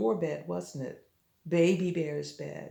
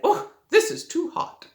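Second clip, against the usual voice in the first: put-on high, loud little girl voice; a girl complaining it's hot; 11 semitones higher, 5 dB louder than usual. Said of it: "and said".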